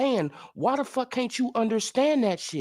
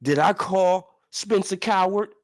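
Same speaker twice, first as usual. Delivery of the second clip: mock quote; 4 semitones lower than usual. Quoting rival mockingly.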